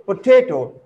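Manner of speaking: "potato" said po-TA-to; stress on second syllable. Shown as a demonstration. Teacher repeating the example, stress on second syllable. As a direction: push the middle syllable of "potato". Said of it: "In same way".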